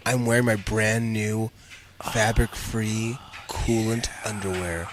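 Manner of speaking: sultry narrator. Pretend. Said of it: "Just a little bit sexier".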